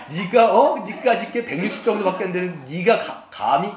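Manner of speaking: mock contemptuous challenge, punched at the start; scornful. Preacher acting out open contempt nobody would voice, scornful. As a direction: act out an indignant put-down. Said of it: "나를 무시하는구나, 멸시하는구나".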